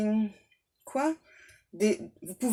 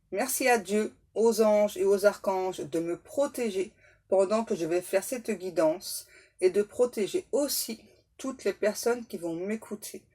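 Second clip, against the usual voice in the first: protection prayer; 2 semitones lower than usual. Acted. Prayer repeated.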